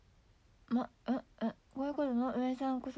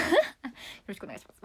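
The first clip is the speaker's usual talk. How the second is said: Abe impression; much faster than usual. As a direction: mimic a prime minister's closing bow. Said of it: "元安倍総理さんのモノマネ".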